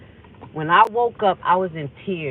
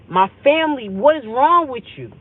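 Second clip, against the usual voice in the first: high, loud, exasperated challenge; raised voice, mad and accusing; retold anger at God; 7 semitones higher, 7 dB louder than usual. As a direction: confront God in indignant disbelief. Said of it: "I'm mad at God".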